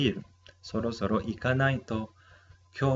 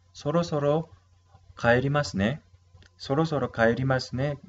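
model pronunciation; 4 semitones higher, faster than usual. Shown as a demonstration. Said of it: "usamos esta palabra".

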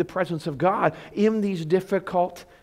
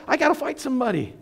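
mock panic; 8 semitones higher, 4 dB louder than usual. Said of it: "he was freaking out".

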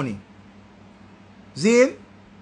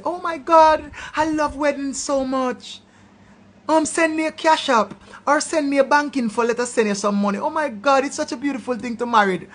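higher, gushing mock do-gooder; mock good Samaritan; 4 semitones higher than usual. Scene: imitating an imagined donor to wedding beggars, gushing. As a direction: lightly gush like a sweet stranger. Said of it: "some good Samaritan I go say".

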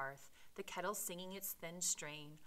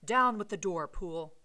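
loud, urgent order; cried command; 11 dB louder than usual. A narrator's reading. Utterson orders Poole to break the door, loud cry. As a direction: shout the order to attack. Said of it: "cried Utterson".

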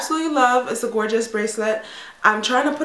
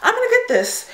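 excited; 12 semitones higher than usual. Retold or imitated. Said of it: "so I was just like".

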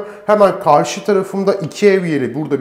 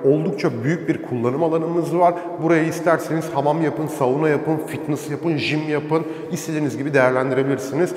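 soft voice in an echoing basement; cave echo; 4 semitones lower, 6 dB quieter than usual. Real, not acted. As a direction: keep it soft so it won't echo. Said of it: "çok bağırmak istemiyorum çünkü sesim yankı yapıyor".

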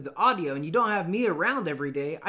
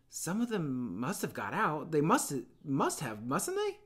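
a hint of a nervous child pleading; lightly voiced anxious boy. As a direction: play the fat boy fretting about the other kids. Piggy anxious.

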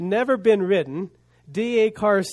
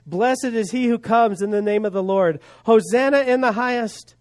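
measured imitation of a cheering crowd; crowd's shout; 3 semitones higher than usual. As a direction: proclaim it like a mild crowd shout. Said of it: "those that followed shouted".

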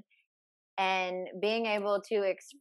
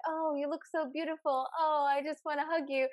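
imitating gushing fiance; 6 semitones higher than usual. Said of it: "he'll be like".

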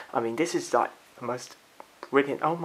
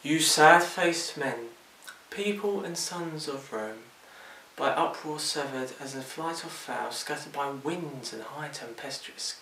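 roman orator; 2 semitones lower than usual. Acted. Reciting Shakespeare monologue.

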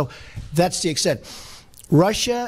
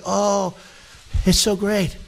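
mock praise; 5 semitones higher, slower than usual. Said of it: "Everyone in this country is gonna say".

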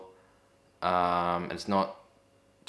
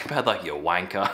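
laughing mock insult.

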